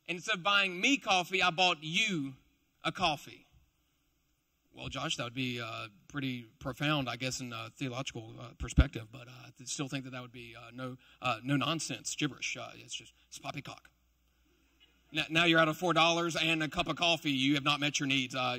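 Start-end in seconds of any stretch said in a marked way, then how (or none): 4.7-13.9 low, soft, sniffy voice of a doubter; skeptical British scoffer. Retold or imitated. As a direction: scoff at the idea like a stuffy Brit. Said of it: "Those are the people who".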